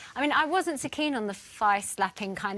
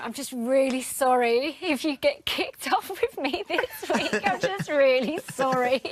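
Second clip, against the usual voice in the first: laughing apology; slower than usual. Retold or imitated. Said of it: "I just say to him".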